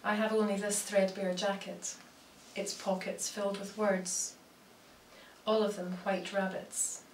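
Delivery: measured recital with long pauses between phrases; poetry reading. Acted. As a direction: let each image land, then pause. Reads own poems aloud.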